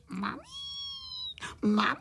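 hammed-up childish bawling; crying for mum. A narrator's reading. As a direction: wail it like a tearful little one. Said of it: "brečeli na celé kolo a volali".

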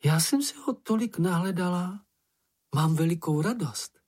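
high, glowing with joy; delighted Snork Maiden. A narrator's reading. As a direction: gush it out high and happy. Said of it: "zežloutla radostí". (vysoko a radostně, nadšeně)

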